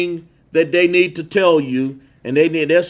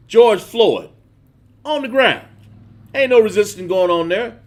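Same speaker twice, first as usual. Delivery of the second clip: rising outrage; 5 semitones higher, 4 dB louder than usual. Real, not acted. Preacher rises in outrage.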